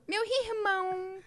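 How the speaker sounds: slow, half Carioca "irmão" with a guttural R; a little girl drawing out a Carioca "irmão". Retold or imitated. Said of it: "ela manda um meio carioca". ("Meu irmão" lento, com R meio carioca)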